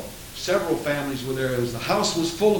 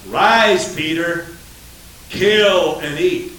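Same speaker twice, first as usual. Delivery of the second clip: voice of God; 5 dB louder, much slower than usual. Acted. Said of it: "And a voice said".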